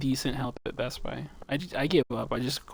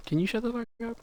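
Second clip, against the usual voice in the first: mock rude retort; 9 semitones higher than usual. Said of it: "I'm like".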